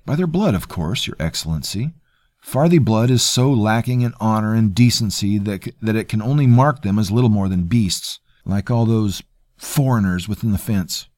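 a hint of a smug, polite cousin; smooth courtier. Terrell sneering.

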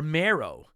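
MARROW said as MAIR-oh, with no I; variant pronunciation. Shown as a demonstration. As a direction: say "Marrow" in two syllables, MAIR-oh. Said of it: "turns into Mario or Marrow".

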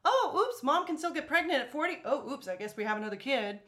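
high mock oops voice; mock parents' surprise. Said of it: "She was the".

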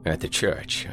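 soft, half-whispered remorse; a quiet, broken apology; hushed and guilty. Acted. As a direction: confess it softly, ashamed and scared. Carl hushed, guilty on the phone.

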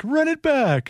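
hammed-up sportscaster call; Vic Rauter impression. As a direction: push the vampire Count further. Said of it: "Just count for us".

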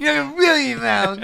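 put-on high, loud, fast childish voice; cartoon kid imitation; imitating the boy. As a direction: rattle it off like a tiny kid. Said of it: "exactly how he said it".

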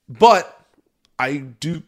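talking through hiccups. Real, not acted. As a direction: hiccup breaking the words. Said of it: "Oh, man, I got the hiccups".

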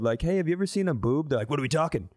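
ordinary talk, nothing marked

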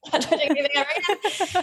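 laughing through the words. Real, not acted. Mother laughing at herself on a podcast, laughing. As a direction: giggle out the vow, self-mocking. Laughing at her own irony.

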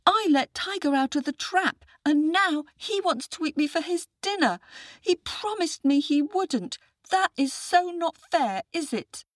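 put-on very high child voice; aggrieved little boy. A narrator's reading. Boy complains to a would-be rescuer, high aggrieved voice. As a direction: plead squeakily as a small boy.

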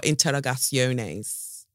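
slow, tentative Spanish pronunciation; mock Spanish accent. Shown as a demonstration. Podcaster guessing at a foreign word, mock Spanish accent. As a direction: try it in a makeshift Spanish accent. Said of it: "Maybe that's Spanish".

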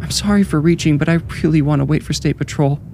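high, fearful pleading; holding back tears. A narrator's reading. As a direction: apologize in a high voice, near tears. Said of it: "holding back tears".

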